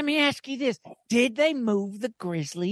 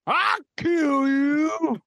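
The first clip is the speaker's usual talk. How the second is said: threatening shout; 4 semitones higher, 3 dB louder, much slower than usual. Acted. Sudden threat to Wilford.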